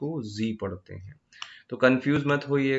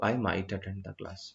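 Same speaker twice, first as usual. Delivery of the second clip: slow example sentence; 3 semitones lower, 4 dB quieter, much slower than usual. Shown as a demonstration. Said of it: "मैं शायद ही करूँगा".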